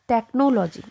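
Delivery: "technology" as tek-no-LO-jee; mispronounced technology. Shown as a demonstration. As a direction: say "no" in the middle of "technology". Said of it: "it's not technology".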